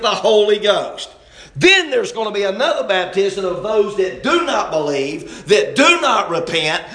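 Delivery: emphatic pulpit delivery, punching key words; fervent preaching. Real, not acted. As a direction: preach it with mounting insistence. Preaching at full force.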